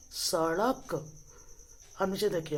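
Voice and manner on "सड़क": सड़क drawn out slowly with a flapped ड़; slow model reading. Shown as a demonstration. Teacher modelling सड़क slowly for pupils. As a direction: stretch सड़क slowly so every sound is clear. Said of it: "क्या पढ़ेंगे".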